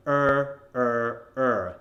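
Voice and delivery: "er" held with a hard American r; evenly repeated, separate "er" with full r; strong ER. Shown as a demonstration. Coach introducing three sets, strong ER sound. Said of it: "that strong E R sound".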